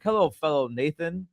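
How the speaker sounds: breezily assured hello, slowly drawn out; retold overconfident greeting, taking its time; confident greeting. Nate greets Joel by the wrong name, confidently. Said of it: "very confidently called them the wrong name".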